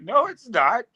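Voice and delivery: high-pitched retold contradiction; mock emphatic denial. Friend argues with bar dude, escalating mock denial. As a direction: pitch it up and contradict him harder.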